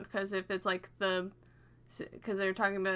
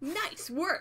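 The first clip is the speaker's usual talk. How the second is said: pitched-up video game hero voice, tossed off; 8 semitones higher than usual. Reacting to the other speaker on stream: Sonic impression. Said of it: "That's my Sonic impression".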